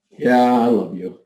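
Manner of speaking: tossed-off declaration of love; offhand. Shown as a demonstration. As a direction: say it like a casual brush-off. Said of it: "say the exact same words many different ways".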